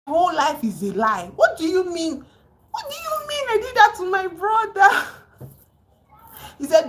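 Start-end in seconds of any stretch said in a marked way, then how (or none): 0.1-5.1 imitating a scream. Amir yelling at his uncle Rahim, a high retold outburst. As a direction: throw it at him like a betrayed nephew. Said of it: "He was screaming at Rahim".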